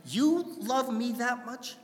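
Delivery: high, slow, wondering question; stunned that anyone could love him this much; slow high disbelief; amazed. Retold or imitated. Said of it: "I'm going".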